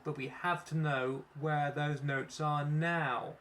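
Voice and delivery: slow, kindly but firm; sympathetic. Acted. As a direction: soften it, then insist.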